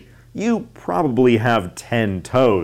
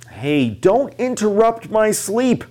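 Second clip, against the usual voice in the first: mock cry of the lion; 6 semitones higher than usual. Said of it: "So the lion cried this out".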